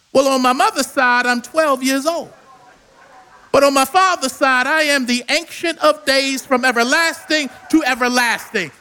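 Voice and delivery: building from calm to a ringing shout; rising proclamation. Acted. Boy Jesus answering the elders, building to a shout. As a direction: let it swell into a triumphant shout.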